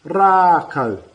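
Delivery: "Rākau" again with clear long ā; firm, clear "Rākau" with long vowel; macron demo. Shown as a demonstration. Teacher repeating a macron word, firm. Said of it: "word with a macron in, it matters".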